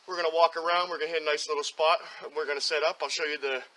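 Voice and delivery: winded, puffing between words; out of breath. Real, not acted. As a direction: talk while catching your breath. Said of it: "I'm out of breath".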